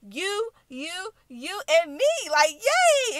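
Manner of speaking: put-on high, squealing child voice building to a loud yay; a kid squealing with joy; excited little girl. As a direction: play the thrilled kid cheering. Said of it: "And she was so excited".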